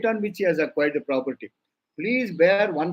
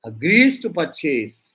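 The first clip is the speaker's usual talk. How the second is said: "agrees" hit loud and slow in "agrees to purchase"; stressed key wording; 4 dB louder, slower than usual. Shown as a demonstration. Lecturer giving students the exact wording, "agrees" stressed. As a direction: dictate it slowly, punching "agrees". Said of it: "You only say".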